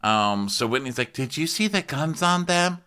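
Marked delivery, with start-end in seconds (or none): 1.1-2.8 tag. Retold or imitated. Acting out Whitney's reaction.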